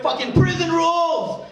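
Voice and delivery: high, loud yell of a rallying cry; shouted battle cry. Retold or imitated. Asian teammate rallying the team, shouting loud. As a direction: bellow it like a war cry.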